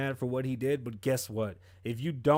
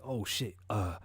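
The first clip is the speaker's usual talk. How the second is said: scared caller. Retold or imitated. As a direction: plead on the phone, rattled. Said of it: "the couple called nine one one".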